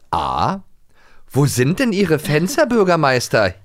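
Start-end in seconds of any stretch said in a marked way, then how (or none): 1.3-3.5 cheeky giggle. Acted. Reads Bibi's cheeky answer.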